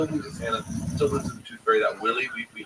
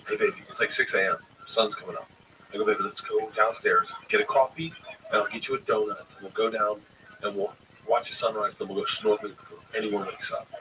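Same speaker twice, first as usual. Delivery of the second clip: gentle coaxing. Retold or imitated. Waking daughter gently.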